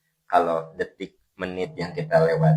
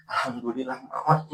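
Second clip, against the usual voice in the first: slightly hammed-up, higher-pitched thanks; mock relief; 6 semitones higher than usual. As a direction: play the wrong kind of acceptance for laughs. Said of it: "Ridho bukan gini". (pura-pura lega, dibuat lucu)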